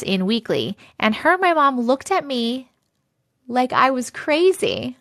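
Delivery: steady storytelling read; story reading. Acted. Streamer reading a viewer's creepy story aloud. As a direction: draw listeners into a creepy tale.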